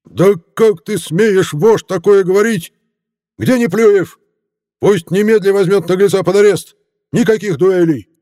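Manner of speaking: high, loud, outraged mayor shouting orders; a mayor bellowing in fury at the crowd; furious mayor. Acted. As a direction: blow up and order an arrest.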